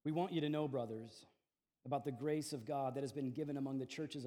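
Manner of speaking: measured, solemn reading of the passage; scripture reading. Acted. Pastor reading scripture aloud to the congregation, measured and solemn.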